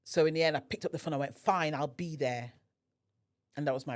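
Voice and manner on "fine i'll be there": slow, reluctant agreement; grudging acceptance. Retold or imitated. Guest answering her friend's invitation, grudgingly. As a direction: give in grudgingly, drawing it out. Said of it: "I was not happy".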